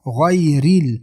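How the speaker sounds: thin r before the i in غیرل; light r. Shown as a demonstration. Teacher showing light ra in غیرل, thin r. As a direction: keep the r of غیرل light after heavy gh.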